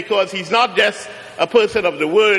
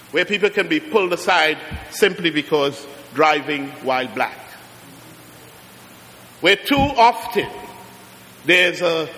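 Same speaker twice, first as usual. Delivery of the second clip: preaching. Acted. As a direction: let the injustice sink in phrase by phrase. Preaching on racial profiling.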